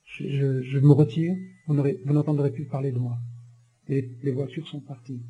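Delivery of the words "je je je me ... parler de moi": meek apology. Retold or imitated. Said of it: "il dit, madame".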